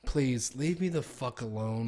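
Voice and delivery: slow, weary mock plea; fed-up brush-off. Customer brushing off a chatty clerk, slow and weary. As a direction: drag it out like you're done with him. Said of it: "And I'm like".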